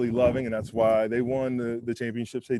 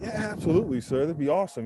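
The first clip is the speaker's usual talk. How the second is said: eager yes; 6 semitones higher than usual. Retold or imitated. Eager reply to drafting call.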